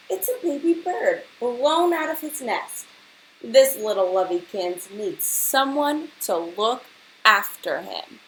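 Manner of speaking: put-on caring old lady. Angela tenderly taking charge of the bird. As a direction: coo over the little bird. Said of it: "said Angela".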